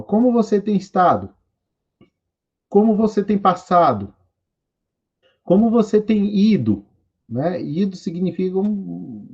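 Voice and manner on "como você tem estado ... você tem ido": translation read out higher. Shown as a demonstration. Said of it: "da seguinte forma".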